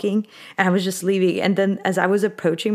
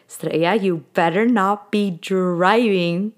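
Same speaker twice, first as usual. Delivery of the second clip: slow, deliberate telling-off; measured, imitated scolding; mock stern warning; slower than usual. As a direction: warn a friend slowly and firmly, imitating her. Friend's warning acted in a story.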